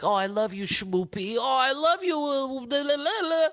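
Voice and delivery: put-on high, sing-song cutesy baby talk. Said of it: "the cute baby talk".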